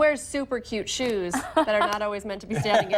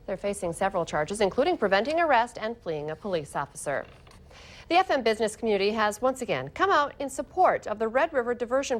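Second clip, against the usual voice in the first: measured anchor delivery; crisp scripted news delivery; news read; 3 semitones lower than usual. Acted. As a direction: read it as a local morning news story. Anchor reads news copy.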